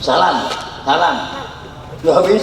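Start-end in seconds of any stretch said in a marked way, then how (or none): 0.0-1.3 brushing off a greeting; dismissive salam; mild lazy brush-off; curt reply. Retold or imitated. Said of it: "Pak Haji".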